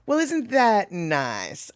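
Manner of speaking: slow, soft, sugary jab; hint of a Southern belle; syrupy Southern put-down. Shown as a demonstration. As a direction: sweeten it while meaning the opposite. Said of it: "the way she said it".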